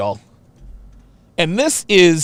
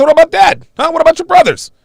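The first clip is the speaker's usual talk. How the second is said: put-on high, loud challenge to his girlfriend; retold confrontation, pitched up and pushing; defiant challenge; 6 semitones higher, 4 dB louder, faster than usual. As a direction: throw her family back at her. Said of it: "I said".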